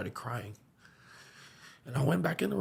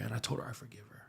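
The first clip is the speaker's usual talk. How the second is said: whispered; 11 dB quieter, faster than usual. Real, not acted. Narration turns to whisper.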